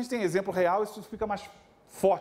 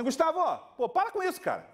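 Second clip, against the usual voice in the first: higher, brisk telling-off of a showing-off pupil; firm teacher scolding; 5 semitones higher, faster than usual. Retold or imitated. Teacher tells Gustavo to sit down: higher, firm mock scolding. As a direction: scold him like a buddy who means it. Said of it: "Eu virava pro Gustavo e falava assim".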